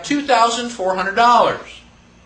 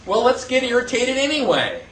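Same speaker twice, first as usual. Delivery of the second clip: ordinary talk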